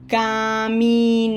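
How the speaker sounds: Caminará in long syllables, landing loudest on RÁ; stress on final RÁ. Shown as a demonstration. Teacher modelling Caminará, stressed on the accented last syllable. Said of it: "Graphic accent".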